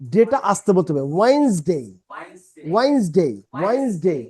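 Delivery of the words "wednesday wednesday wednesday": ওয়েন্সডে said as "WAINS-day", two syllables; correct Wednesday pronunciation. Shown as a demonstration. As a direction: model ওয়েন্সডে with a firm first syllable, falling on "day". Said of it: "ওয়েন্স হচ্ছে জোরে দিতে হবে". (ওয়েন্সডে, প্রথম অংশে জোর দিয়ে দুই ভাগে উচ্চারণ)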